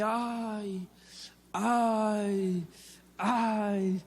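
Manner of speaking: retold moaning. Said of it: "empecé a quejarme".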